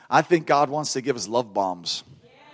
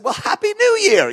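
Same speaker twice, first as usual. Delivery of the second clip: smiling reply. Retold or imitated. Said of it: "this smile came in my, on my face".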